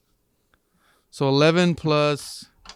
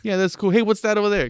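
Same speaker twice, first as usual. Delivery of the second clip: put-on Boston accent; 5 semitones higher, 4 dB louder than usual. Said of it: "put on your best Boston accent".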